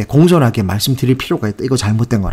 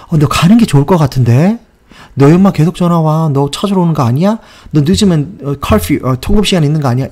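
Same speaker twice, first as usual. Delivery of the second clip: worried friend; 4 semitones higher, 3 dB louder than usual. Retold or imitated. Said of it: "이런 식으로 걱정해줘서 하는 말인데".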